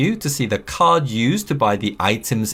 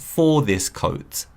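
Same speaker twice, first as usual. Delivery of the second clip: for this coat, slow and clear; slow model phrase; 2 semitones lower, slower than usual. Shown as a demonstration. Teacher models the phrase slowly for students. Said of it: "we have".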